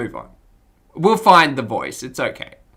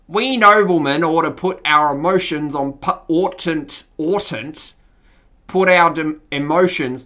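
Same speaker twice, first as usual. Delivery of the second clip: Australian nobleman; Australian accent; slower than usual. Acted. Noble son addressing his father, Australian accent. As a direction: speak formally with an Australian accent. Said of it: "Stefan's voice was Australian".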